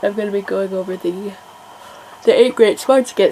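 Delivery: yawning while talking. Speaker describing an educational session she will host, yawning while talking. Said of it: "I don't know why I'm yawning so much right now".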